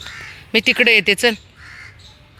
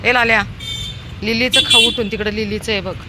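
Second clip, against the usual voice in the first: calling a pet; 3 semitones higher than usual. Real, not acted. Calling dog Lalya to eat.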